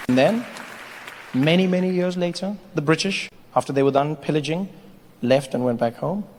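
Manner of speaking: measured storyteller with long pauses; mock-solemn narration. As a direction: intone it like a grand history tale. Narrates history between sketches.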